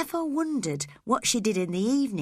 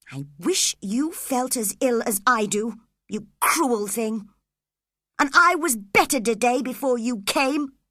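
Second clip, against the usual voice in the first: self-pitying; 4 semitones higher, 4 dB louder than usual. Acted. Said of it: "full of pity for himself".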